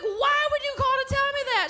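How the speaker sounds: very high-pitched mock protest; exasperated son. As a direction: protest to mom with voice shooting way up. Exasperated son in acted quarrel.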